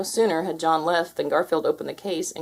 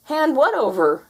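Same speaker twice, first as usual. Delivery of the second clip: fake innocent; 8 semitones higher, 4 dB louder than usual. Dangled Garfield feigns innocence.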